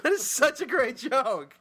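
high, slow, exaggerated disbelief that nobody laughed; mock outraged insistence. Real, not acted. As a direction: stretch it out, pleading that the joke is great. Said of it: "insisting the joke is great".

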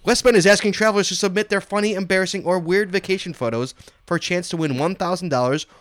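reading the release in a formal announcer voice; a mock-official read of the press release. Shown as a demonstration. Host reading the station's press release on air, in mock-official tones. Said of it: "Here's the official, you know, air quotes".

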